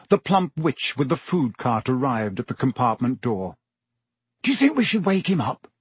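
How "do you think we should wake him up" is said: quick, awkward question. A narrator's reading. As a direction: ask it uneasily. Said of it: "Ron asked awkwardly".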